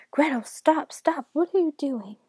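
high, loud, alarmed shouting; urgent shout. A narrator's reading. Father fighting off his armed daughter, shouting in alarm. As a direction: shout to stop an attack.

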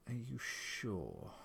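a slow, tense question; mildly uneasy wife checking. A narrator's reading. Wife questions husband about the animal, tense. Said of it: "His wife sounded particularly tense".

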